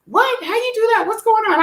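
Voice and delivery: high, astonished questions; imitating people's amazed reaction; amazed onlookers. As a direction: play the stunned crowd. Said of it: "people were like".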